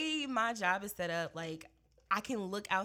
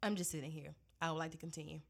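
lower, deliberate and firmly patient; laying it out; 6 semitones lower than usual. Retold or imitated. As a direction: spell it out flatly, step by step. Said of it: "lay it out so you can understand".

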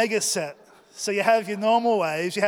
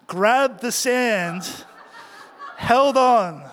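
strained laughing emphasis; 4 semitones higher, 6 dB louder, much slower than usual. Retold or imitated. Clinging to seabed.

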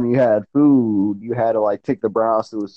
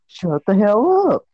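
mock yell; 7 semitones higher than usual. Friend retelling the casino argument, drawn-out mock yell. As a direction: retell your own yell, pitched up and stretched. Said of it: "You were yelling at me".

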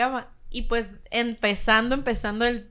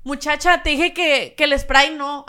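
mock shout at waitress; 4 semitones higher, 6 dB louder, slower than usual. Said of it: "nos gritamos mucho".

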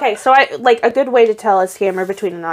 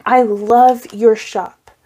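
retold scam message; slower than usual. Voices scammer's slow message.

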